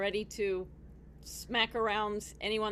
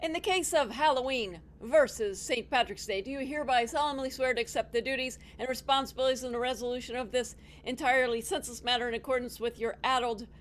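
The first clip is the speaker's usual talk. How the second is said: royal herald; 2 semitones higher than usual. Acted. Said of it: "Bailiff, please swear in our counselors".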